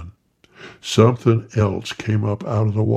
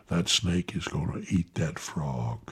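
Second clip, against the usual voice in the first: whispered; 5 semitones lower, 9 dB quieter than usual. A narrator's reading. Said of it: "I whispered to Council".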